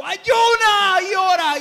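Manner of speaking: slow, high, very loud drawn-out shout; shouting spirit. Acted. The spirit commanding the believer to fast and pray, slow booming shout. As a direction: stretch out every word of the command at full volume. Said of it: "Es el espíritu el que le está gritando".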